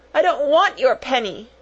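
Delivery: put-on high, tearful child's refusal; acted sobbing. A narrator's reading. Crying little girl refusing a bribe, sobbing. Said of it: "sobbed Lottie".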